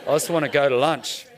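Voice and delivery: low, muttered grumble; quiet, unimpressed aside; grumbling reluctant participant. Acted. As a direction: grumble it under your breath like a sulky participant. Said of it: "choose to be that person".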